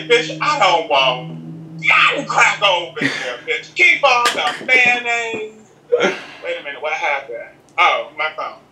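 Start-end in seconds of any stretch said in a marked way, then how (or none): 0.0-5.7 sassy. Retold or imitated. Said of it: "where I was like".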